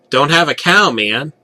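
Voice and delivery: mock cartoon-kid quip; cartoon kid catchphrase. Cartoon catchphrase quoted mid-story.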